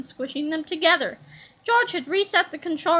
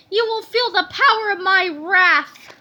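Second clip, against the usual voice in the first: slow, loud villain voice; villain threat; 4 semitones higher, 5 dB louder than usual. A narrator's reading. Villain Melvin threatening the captain, slow and grand. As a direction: threaten with full drama. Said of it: "said Big Melvin".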